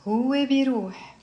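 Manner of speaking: both words joined in one phrase. Shown as a demonstration. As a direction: run pronoun and verb together.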